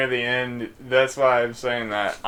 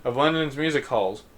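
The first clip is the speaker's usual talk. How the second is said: put-on botched English accent. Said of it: "messing up these accents".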